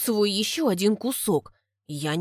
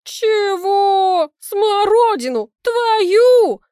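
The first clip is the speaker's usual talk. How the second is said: mocking laugh; 11 semitones higher, 9 dB louder, much slower than usual. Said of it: "хохочет соседка чересчур громко".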